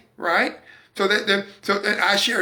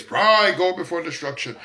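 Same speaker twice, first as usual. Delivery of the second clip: mock scripture quote. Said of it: "quote the scripture like".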